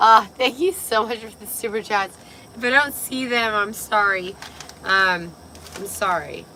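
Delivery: hoarse, worn-out voice; raspy voice. Real, not acted. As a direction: talk through a raspy throat. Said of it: "I like my raspy voice".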